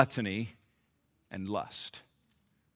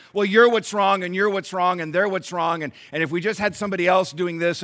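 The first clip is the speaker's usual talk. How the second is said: mocking blame; 3 semitones higher, 6 dB louder than usual. Mocking people who blame others.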